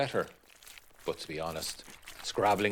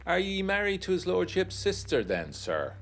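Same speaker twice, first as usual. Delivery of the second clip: local man's prying question; 11 semitones higher than usual. Acted. Meathall questions the narrator.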